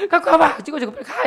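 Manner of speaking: high, loud mock shooing; exasperated giving in. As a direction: imitate a mother snapping as she gives in. Mother gives in, shooing him.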